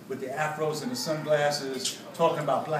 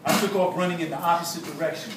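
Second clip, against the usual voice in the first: measured, deliberate storytelling read; narrated account with weighted pauses; memoir narration. A narrator's reading. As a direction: read your own story aloud to an audience. Reads a memoir aloud.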